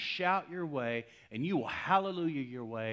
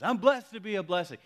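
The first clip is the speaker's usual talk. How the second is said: high, loud fervent declaration; raised-voice imitation of triumphant praise; claiming promises; 7 semitones higher, 7 dB louder, faster than usual. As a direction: proclaim it like a promise being claimed. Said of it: "he starts claiming promises".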